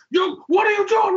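high, shouted challenge; confrontational. Retold or imitated. Imitating an old vendor confronting the drunk, confrontational. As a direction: call him out loudly.

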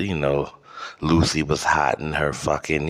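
ordinary delivery

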